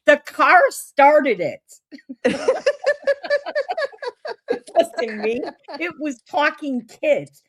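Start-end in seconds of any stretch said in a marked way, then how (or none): 0.1-5.4 laughing excuse. Retold or imitated. Defending herself to her friend, laughing. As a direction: chuckle out the excuse.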